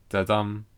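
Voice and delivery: light "da", weighted "dum"; short-long beat on "da-dum"; iambic stress. Shown as a demonstration. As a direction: sound out "da-dum" as one iamb, leaning on "dum". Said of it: "it's an unstressed and stressed".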